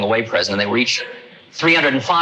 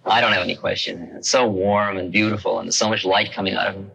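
awed, hushed; 4 semitones lower than usual. Retold or imitated. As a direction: speak in hushed awe. Awed reply to the guru.

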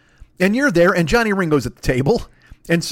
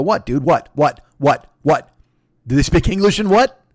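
taunting; 4 dB louder than usual. Retold or imitated. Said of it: "you stare at him and go".

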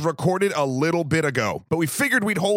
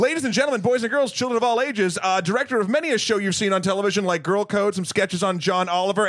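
circus barker intro, quick middle; ringmaster; 2 semitones higher, faster than usual. Acted. Circus-style guest introduction.

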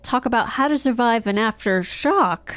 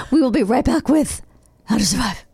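giggling through the words; after laughing hard; 4 semitones higher than usual. Real, not acted. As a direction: still laughing through the outro. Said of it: "after laughing fit".

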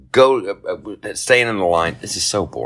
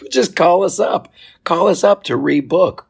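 mock airline; 12 semitones higher, 5 dB louder than usual. Mocking Delta's text.

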